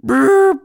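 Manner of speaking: loud rolling lip trill; robot war sound. Shown as a demonstration. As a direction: buzz it like a droid. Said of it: "trying to do a war sound".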